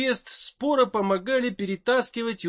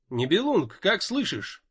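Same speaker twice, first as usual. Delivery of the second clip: radio call inside a helmet. Acted. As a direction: voice heard over a helmet comm. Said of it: "раздался голос в шлеме".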